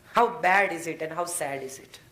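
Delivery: drawn-out, rueful question; slow and sorrowful. Real, not acted. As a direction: let each word sink slowly.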